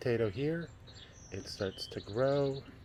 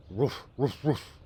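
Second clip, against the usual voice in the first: louder, higher playful woofs; dog barking; 3 semitones higher, 5 dB louder, slower than usual. Acted. Dog answering the daughter's call, playful barking. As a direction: bark like a friendly dog.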